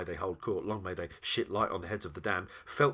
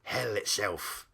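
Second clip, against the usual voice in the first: slow, weighty demon voice; name the masters with slow, proud relish; grand, drawn-out demon pronouncement; slower than usual. Acted. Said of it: "proud to name its old master".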